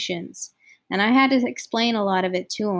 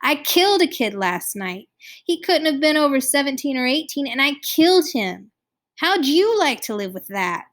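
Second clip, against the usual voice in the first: anguished outburst, rising higher and louder; gasping, clenched-teeth outburst; 5 semitones higher, 4 dB louder than usual. A narrator's reading. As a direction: build from tight protest to pained challenge. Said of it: "gasped from between clenched teeth".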